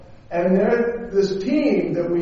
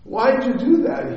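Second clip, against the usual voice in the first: higher, pleading "Why?"; a girl demanding to know why she was shoved, voiced higher; mock surprised girl; 6 semitones higher than usual. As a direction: play her startled question. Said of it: "She goes".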